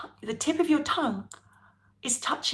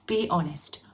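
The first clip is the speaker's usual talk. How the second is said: ordinary delivery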